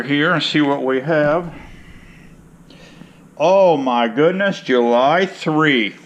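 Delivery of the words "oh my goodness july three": surprised. Real, not acted. Spots the date on calendar.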